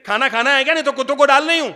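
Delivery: loud, high nagging wife threat; angry shout. Retold or imitated. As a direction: bark it like a fed-up wife.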